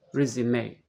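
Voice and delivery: resume with stress on RE; the noun resume, first syllable stressed, ending in AY. Shown as a demonstration. Teacher demonstrating the noun resume, stress on first syllable. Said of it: "The stress is on the first syllable".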